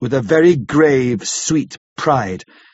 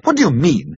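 anguished; 7 semitones higher than usual. A narrator's reading. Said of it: "He groaned in anguish".

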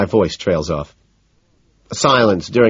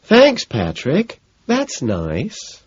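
sarcastic; 9 semitones higher, much slower than usual. A narrator's reading. Sarcastic high thanks.

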